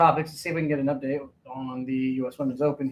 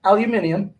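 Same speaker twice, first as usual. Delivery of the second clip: higher, louder mock British; British accent; 6 semitones higher, 5 dB louder than usual. Co-host mimicking the English woman, British accent. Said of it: "the prototypical female English voice".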